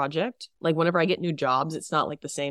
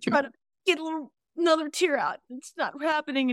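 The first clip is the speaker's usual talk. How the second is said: high, quick, laughing; giggling through it; 11 semitones higher than usual. Real, not acted. Laughing narration of faking tears.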